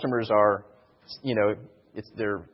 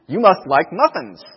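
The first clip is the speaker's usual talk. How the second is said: playful laugh; 5 semitones higher, 10 dB louder than usual. Acted.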